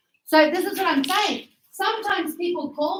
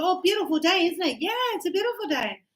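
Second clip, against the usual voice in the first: bus small talk; 4 semitones higher, faster than usual. Acted. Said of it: "And they go".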